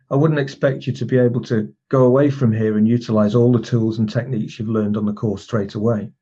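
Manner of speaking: slight pause after "be able to", then "go away from here" as a command; embedded command pause. Shown as a demonstration. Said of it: "if you notice the pause".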